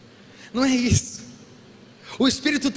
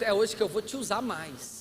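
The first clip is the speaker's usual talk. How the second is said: voice of the Holy Spirit; 6 dB quieter than usual. Retold or imitated. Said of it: "Ah, o Espírito Santo".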